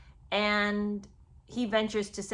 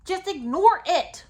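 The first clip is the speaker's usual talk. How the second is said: dismissive; 9 semitones higher, 8 dB louder, slower than usual. Pretend. Mock advice to Harry.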